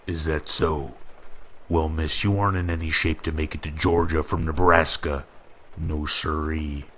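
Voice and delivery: folksy Midwestern cop, fast then slow on no siree; lightly voiced Midwestern officer warning her; Midwestern drawl. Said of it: "he said in a Midwestern drawl".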